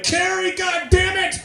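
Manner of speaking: high, loud self-scolding rant; mock self-directed anger. Comic berating herself for a flubbed joke, screamed mock fury. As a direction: build from yell to screaming fit. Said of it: "bring that to comedy".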